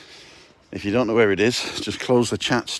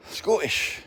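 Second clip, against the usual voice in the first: laughing; 10 semitones higher, 3 dB quieter than usual. Real, not acted. Laughing at own joke.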